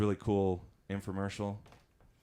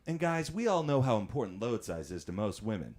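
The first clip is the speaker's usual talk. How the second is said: infomercial read. Shown as a demonstration. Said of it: "I get to this one".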